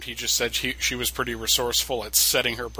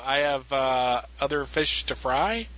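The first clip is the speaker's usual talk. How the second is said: halting, searching; slower than usual. Retold or imitated. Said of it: "it's, uh".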